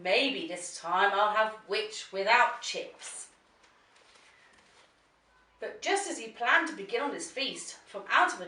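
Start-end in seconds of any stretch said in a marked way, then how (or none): 0.0-3.3 slow, gloating dragon line; slow mock menacing dragon; greedy dragon. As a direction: savor each word, licking lips. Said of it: "licking his lips, said".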